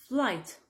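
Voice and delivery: flight said "flite", with no G or H; silent GH. Shown as a demonstration. English teacher showing French learners the word, silent GH in flight. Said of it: "Tu ne prononces pas le G et le H".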